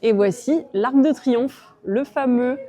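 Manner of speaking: loud, slow, grand presentation; excited announcing. Real, not acted. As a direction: unveil it like a star. Presents famous stallion.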